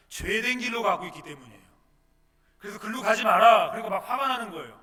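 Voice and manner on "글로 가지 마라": sudden shouted command, much louder; stern command. Acted. Preacher voicing God's stern order, shouted. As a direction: bark the order like a stern God.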